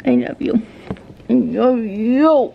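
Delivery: drawn-out, cooing affection; doting pet talk. Real, not acted. Owner doting on dog, cooing baby talk. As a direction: stretch it out lovingly for the dog.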